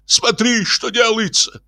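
very high, alarmed squeal; flustered high-pitched exclamation; frightened cry. Acted. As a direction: summon help in a panicked high voice. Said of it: "закричал испуганный инженер".

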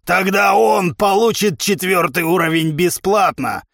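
cheerfully shouted comeback; happy. A narrator's reading. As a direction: answer back with delight. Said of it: "счастливо откликнулся тренер".

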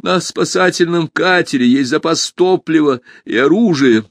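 high, loud, emphatic warning; urgent warning. A narrator's reading.

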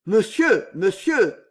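gasped. A narrator's reading. Servant appealing to his master, gasping. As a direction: gasp it out in alarm. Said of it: "haleta Damien".

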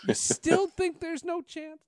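high, loud, slow laughing taunt; laughing tease. Retold or imitated. Teasing the old anchor, laughing high and loud. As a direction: crack up while needling him. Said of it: "I tease him all the time".

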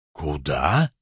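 short low grunt of a husband; curt gruff question. Acted. Husband cutting his wife off with a low curt question. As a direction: bark it back, suspicious.

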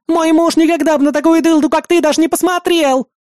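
high, loud screeching tirade; shrill angry wife. A narrator's reading. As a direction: scream at the rival woman. Wife shrieking at Archanka. (ревнивая жена визгливо кричит на Арчанку)

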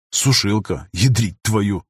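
grumbling. Acted. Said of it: "ворчливо произнёс он".

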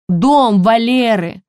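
high, loud, slow panicked cry; trembling with shock; shaking. A narrator's reading. Elena shaken after the explosion, crying out. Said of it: "тряслась Фесунова".

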